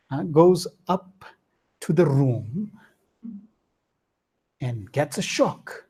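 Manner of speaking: normal talking voice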